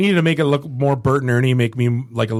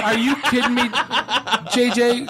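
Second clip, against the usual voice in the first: mock disbelief; 10 semitones higher than usual. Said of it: "I'm like".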